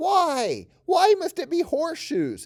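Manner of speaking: whiny, very high, drawn-out, sing-song whine. Voice acting lines, making Terran a little bit whiny: whiny Terran voice. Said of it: "let's make Terran a little bit whiny".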